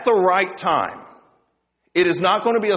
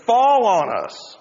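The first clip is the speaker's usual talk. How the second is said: mock desperate plea; 4 semitones higher than usual. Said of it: "they go on to say".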